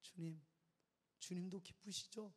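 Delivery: soft repeated tender plea; whisper-soft gentle plea; soft prayer. Retold or imitated. Pastor repeats his prayer to God, softly. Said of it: "이 말 한마디 했어".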